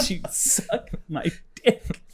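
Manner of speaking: slow, soft unvoiced whisper; joking at the phone salesman in a whisper; mock whisper. Whispered crude joke.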